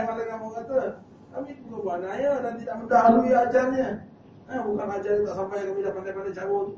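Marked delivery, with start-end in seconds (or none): 1.3-6.7 high insistent protest. Acted. Angel protests innocence.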